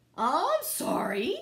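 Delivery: loud, sputtering, spluttering burst of words. Drawing back and starting to shake, he splutters. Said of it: "he spluttered".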